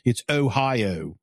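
Ohio said slowly with a long, drawn-out O. Shown as a demonstration. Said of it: "O's are long O's up there".

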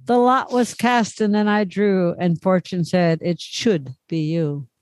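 lightly theatrical verse reading; poem recitation. Acted. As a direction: recite it like an old Valentine rhyme. Recites an old Valentine poem.

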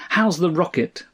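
high piped question; piping mother-in-law. A narrator's reading. Mother-in-law asks about the rocket, piping high. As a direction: pipe up high like an eager old woman. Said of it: "piped mother-in-law".

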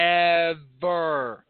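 very slow, stretched syllables; drawn-out movie quote. Acted. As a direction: drag the word out endlessly. Mimics the drawn-out forever of Sandlot.

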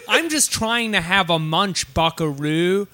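hammed-up fake American accent; attempted American accent. British actor trying to sound casual, bad American accent. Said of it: "trying to do an American accent".

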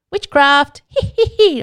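high, loud witch cackle; bad witch impression. Podcaster joking about witch trials, hammed-up witch cackle. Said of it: "really bad impression of a witch".

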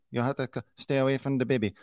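lightly imitated Spanish-accented English; a hint of a put-on Spanish accent; mock Spanish accent. Commentator mimicking the wife warning people off the baby, mock Spanish accent. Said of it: "she sounds like Ana de Armas as Marilyn Monroe".

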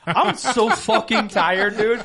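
slow, laughing through the words; laughing tired. Retold or imitated. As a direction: laugh out how tired you are. Exhausted reply laughing.

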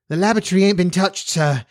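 quick, high, out-of-breath housekeeper; breathless explanation. A narrator's reading. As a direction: explain in a rush after the stairs. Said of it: "she explained breathlessly".

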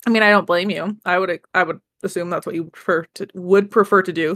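talking while chewing food; chewing noisily. Real, not acted. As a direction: mouth full, eating between words. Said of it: "Sorry, I'm eating at the same time".

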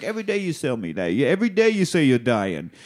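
high, fast exasperated mock Leon; rising into a high-pitched, baffled whine. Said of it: "And Leon's like".

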